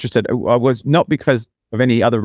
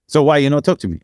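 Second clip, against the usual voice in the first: imitated Brazilian accent, higher; lightly voiced Brazilian woman's accent, pitched up; 4 semitones higher than usual. Woman presses him for a reason, imitated Brazilian accent. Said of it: "with, with the accent".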